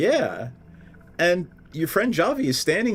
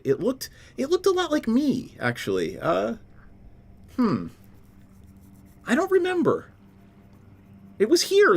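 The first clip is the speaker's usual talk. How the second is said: lightly voiced water spirit; 8 semitones higher than usual. Water weird answers the party.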